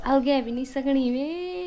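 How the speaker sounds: wife repeats her dialect phrase softly; softly repeated. Shown as a demonstration. Quietly repeating the Garhwali line. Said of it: "सुना था अलगा word में".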